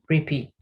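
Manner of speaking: slow careful Repeat; slow model word. Shown as a demonstration. Teacher modelling Repeat slowly for the class. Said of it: "escuchen con atención".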